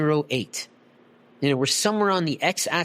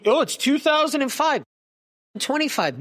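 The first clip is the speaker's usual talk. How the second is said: much higher mock-naive voice; mocking imitation; 9 semitones higher than usual. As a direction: mimic someone clueless, pitched way up. Mocking those stuck in the past.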